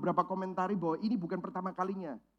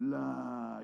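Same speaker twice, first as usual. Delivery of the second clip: put-on Surabaya accent; 8 semitones lower, 6 dB quieter than usual. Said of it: "kalau Surabaya ngomong".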